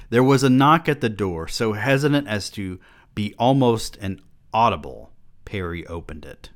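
sarcastic reread; mock flat reading. Shown as a demonstration. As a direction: read it like game instructions. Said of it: "I feel like I'm reading R P G instructions".

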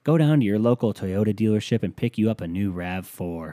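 hammed-up commercial announcer; mock commercial voice. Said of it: "companies were going out and saying".

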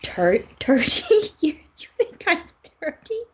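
high, stammering outrage building to a loud no; hammed-up wounded indignation; appalled disbelief. Bookkeeper appalled at age guess.

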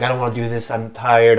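soft, tired retold plea; lightly voiced exhaustion, dropping soft; mock weariness. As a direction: act a worn-out hero giving up. Acts weary hero seeing his mom.

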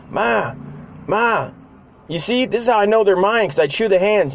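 put-on high pleading kid voice calling Ma; whiny kid to mom. Robbie calling to his mom, high whiny kid plea. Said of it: "And he'd be like".

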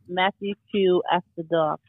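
slow smooth radio host voice. Retold or imitated. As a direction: announce it like late-night radio. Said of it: "it's my radio voice".

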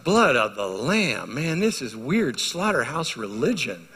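slow, puzzled disbelief; mock his younger doubting self; skeptical newcomer. Preacher retelling first church visit, slow disbelief. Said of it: "I thought".

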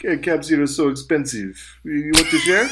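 hammy attempt at a French accent; bad French accent. Friend imitates Peter offering a shared cab, bad French accent. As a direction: put on a shaky-quality mock French accent. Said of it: "my shitty friend Jackson".

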